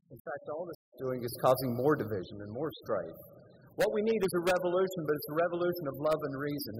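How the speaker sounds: loud, urgent retold preaching to a protest crowd; retold campus preaching. Preacher at open mic urges protesters, loud and urgent. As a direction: proclaim it over the crowd, building force.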